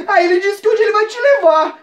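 high-pitched mock alarm relay; high-voiced bystander. Bystander passing on the officer's threat, high-voiced. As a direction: pitch it well up, hammed-up.

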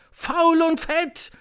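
high, drawn-out crowd echo; shouting audience. A narrator's reading. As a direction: shout it back slowly. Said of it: "schrie das Auditorium". (schreiendes Publikum, hoch und gedehnt)

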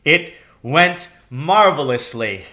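breathless delight. Acted. Father to son after escaping, breathless delight. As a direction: gasp out the joy. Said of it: "breathing heavily".

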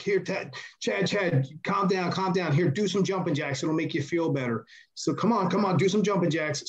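patronising mock comfort; mock soothing taunt. Mocking wrestlers taunting Chad.

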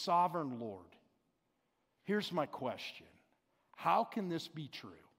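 bow your head and ask gently; humble. Retold or imitated. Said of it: "he starts it very humbly and he says".

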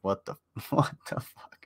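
mock-stunned whisper, breaking into a laugh; imitated disbelief. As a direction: whisper it like an appalled viewer. Voices shocked viewers unsubscribing.

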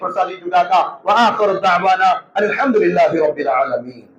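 closing prayer. Real, not acted. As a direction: bless the listeners as you end the sermon. (ప్రసంగం ముగింపులో తక్కువ స్వరంలో దువా)

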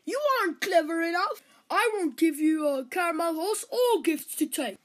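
lightly voiced dismissive count; stern father. Count refusing his youngest son, mildly stern.

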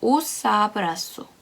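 "오사브라쏘" with "os" short and glued on, the weight on 라; "오사브라쏘" with a quick "os" and stress landing on 라. Shown as a demonstration. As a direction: run "오사브라쏘" together as one word and lean on 라. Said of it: "라쏘에 있고요. 라에 있고요".

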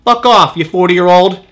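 mock-angry customer lashing out; mad coupon mom. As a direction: tell them off like an irate mom shopper. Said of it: "that mom that is really mad at the coupons".

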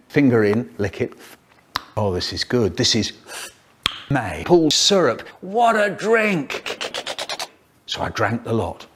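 choppy sentence-mixed clips; words cut and stitched from different takes; spliced words. Acted. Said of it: "faster than science sentence mixing".

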